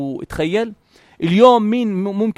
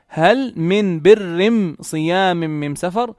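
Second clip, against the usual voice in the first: Himyari dialect; much slower than usual. Retold or imitated. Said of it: "كانوا يقلبوا لام التعريف إلى نون".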